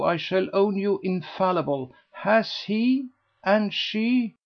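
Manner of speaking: a sceptic won over by the tale; eager gossip. A narrator's reading. Lady Busshe asking Mrs Mountstuart if it is true, eager.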